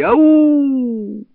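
high ringing ау yelled out; a long high echoing holler; shouted call. A narrator's reading. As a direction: call it into the hills. Drunken call into the mountains.

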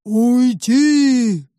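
loud, drawn-out monster boom; monster roar. A narrator's reading. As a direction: bellow it like a hidden beast. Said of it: "раздался голос в ответ". (громкий рёв чудовища)

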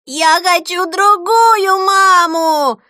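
put-on slow high furious child's howl; child screaming. Boy kicking on the bed screaming for another mum. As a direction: howl it like a toddler in full tantrum. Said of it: "кричал Зигги".

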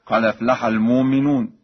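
"المؤمنون" as "al-moominoon", hamza turned to long oo; Warsh recitation. Shown as a demonstration. Teacher illustrating Warsh's hamza change, "المؤمنون" recited "al-moominoon". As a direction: recite "المؤمنون" with "moo", no glottal stop. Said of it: "يبدل الهمز الساكنة".

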